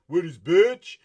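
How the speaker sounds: high, very loud mock hype-man holler; hype man yelling. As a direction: yell the echo like an over-eager hype man. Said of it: "all they're doing is yelling out".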